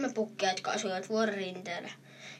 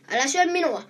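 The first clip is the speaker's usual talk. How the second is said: higher, louder frightened shout; goat shouting; 6 semitones higher, 7 dB louder than usual. A narrator's reading. Bigger goat shouts at the troll not to eat him, loud shout. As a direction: yell it out to stop the troll. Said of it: "huusi isompi pukki".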